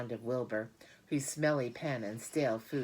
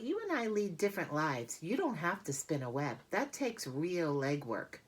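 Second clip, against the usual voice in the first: lightly higher, unhurried spider voice; spider Charlotte voice; 4 semitones higher than usual. Acted. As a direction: gently set the pig straight. Charlotte lectures Wilbur gently.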